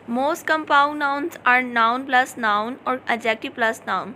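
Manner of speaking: slow, deliberate reading of the definition; slow dictation. Shown as a demonstration. Teacher reading a definition to her class, slow and deliberate. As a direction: read it out word by word for students to copy.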